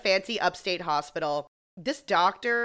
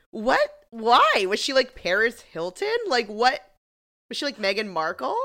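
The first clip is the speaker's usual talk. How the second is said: mock disbelief; 4 semitones higher, 4 dB louder than usual. Her own retold disbelief.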